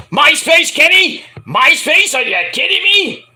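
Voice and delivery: high, loud disbelief at MySpace; incredulous outburst. Retold or imitated. Host scoffing at a MySpace challenge, high and loud disbelief. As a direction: push the pitch way up in shock.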